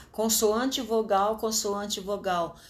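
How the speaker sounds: slow, deliberate listing; pattern spelled out. Shown as a demonstration. Teacher spelling out the syllable pattern, slowly. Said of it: "É tudo assim, ó".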